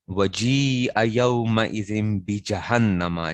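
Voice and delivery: slow, measured recitation of the verse; Quran recitation. Acted. Teacher reciting the verse to his students, slow chant. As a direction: chant it slowly like tilawat.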